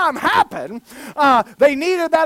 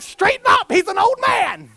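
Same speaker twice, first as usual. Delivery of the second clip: high-pitched incredulous outburst; exasperated mock exclamation; 10 semitones higher, 4 dB louder than usual. Preacher recalling his reaction to stooped disciples, high mock exasperation.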